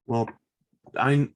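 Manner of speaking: ordinary talk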